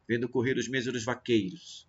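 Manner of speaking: "vaqueiros" with its last syllable barely voiced; weak final syllable. Shown as a demonstration. Teacher showing how the unstressed ending drops, weak final syllable. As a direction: let "-ros" in "vaqueiros" fade away after a stressed EI. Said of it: "ela sai com menos força na pronúncia".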